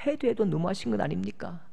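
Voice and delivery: Elijah's protest. Acted. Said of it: "엘리야도 이 마음이에요".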